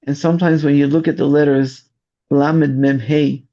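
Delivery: ordinary talk, nothing marked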